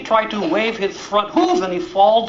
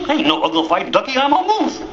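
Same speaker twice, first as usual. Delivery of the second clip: joyful realization; 6 semitones higher than usual. Acted. Duckling realizes identity joyfully.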